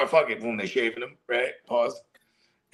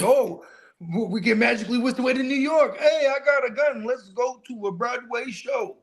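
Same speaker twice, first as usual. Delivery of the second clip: much higher, hammed-up excited pitch; 9 semitones higher than usual. Friend retelling a movie gag, high excited mock pitch. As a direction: squeal it like a cheesy ad. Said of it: "And he's like".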